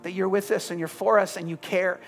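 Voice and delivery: hushed, earnest prayer over the room. Real, not acted. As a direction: pray gently for everyone listening. Pastor prays over the congregation.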